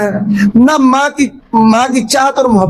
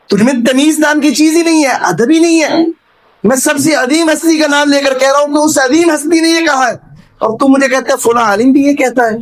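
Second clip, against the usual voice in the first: retold anger; 4 semitones higher than usual. Scholar scolding a man who answers hadith with opinion, mock angry. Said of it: "بڑے غصے میں آ گئے".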